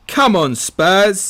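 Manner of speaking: put-on slow sing-song football chant for a small child; prompting a toddler. Shown as a demonstration. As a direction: model the words for your kid to repeat. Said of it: "Can you say".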